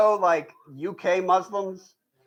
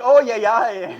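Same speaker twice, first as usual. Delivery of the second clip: excited realization; 3 semitones higher, 6 dB louder than usual. Retold or imitated. Locals suddenly understanding.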